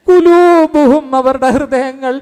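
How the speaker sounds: rousing sermon call; fervent preaching. Real, not acted. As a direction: lift it to a ringing climax. Preacher rising to a climax.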